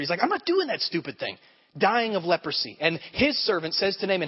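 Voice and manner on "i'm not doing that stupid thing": huffy retold refusal, higher voice; frustrated. Naaman leaving the prophet rather than dip in the river, acted frustration. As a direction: imitate someone storming off in a huff. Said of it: "he begins to leave frustrated".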